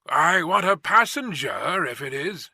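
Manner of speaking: mild shout across a distance; calling from afar. Acted. Rider calls back from the mist.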